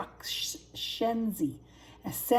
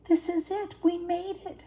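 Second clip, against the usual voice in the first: high thrilled exclamation; excited cub arriving; triumphant cub; 10 semitones higher, 4 dB louder than usual. A narrator's reading. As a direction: cheer like you just won.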